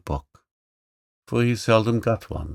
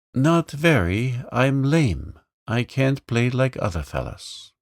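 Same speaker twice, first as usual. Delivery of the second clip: higher-pitched, lightly voiced lame boy; meek little boy, a bit higher; young boy; 5 semitones higher, 3 dB louder than usual. Johnny's lines in the story.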